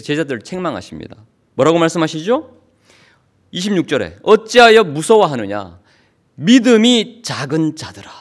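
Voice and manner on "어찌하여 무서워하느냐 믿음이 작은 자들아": firm, slow reproach; stern rebuke. Acted. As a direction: rebuke them steadily, weighing each word. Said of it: "큰 소리로 호통을 치십니다".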